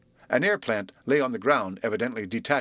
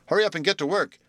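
impatient call; 5 semitones higher than usual. Acted. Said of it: "he called".

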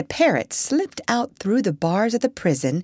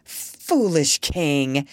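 slow grand voice; 3 semitones lower, much slower than usual. Acted. Parrot posing as doctor.

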